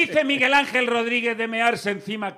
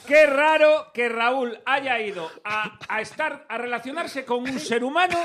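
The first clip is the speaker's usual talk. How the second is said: mock surprise; 4 semitones higher, 3 dB louder, slower than usual. Mocking Raúl's bad mood.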